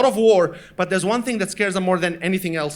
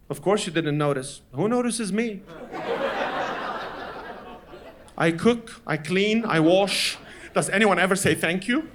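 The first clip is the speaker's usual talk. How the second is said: low, wounded guilt trip; mock long-suffering complaint; martyred mother; 3 semitones lower, 3 dB quieter than usual. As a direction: list the chores with weary self-pity.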